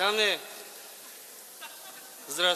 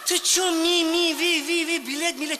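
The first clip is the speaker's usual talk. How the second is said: mocking; 6 semitones higher, 3 dB louder than usual. Officer mocking migrant's speech.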